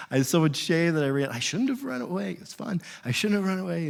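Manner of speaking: small, hushed voice of a guilty dog; mock ashamed cowering. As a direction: play it meek and sorry, softly. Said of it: "he's got this shame and this fear".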